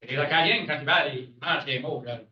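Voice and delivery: Acadian French, eating the words; Acadian French accent. Shown as a demonstration. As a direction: run the words together like an Acadian. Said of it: "They eat their words".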